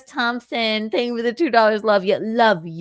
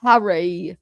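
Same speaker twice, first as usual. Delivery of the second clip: bad British accent; 2 semitones lower than usual. Shown as a demonstration. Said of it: "the only thing I can say in a British accent".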